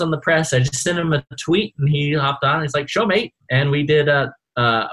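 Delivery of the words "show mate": bad British accent. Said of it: "my British accent's terrible".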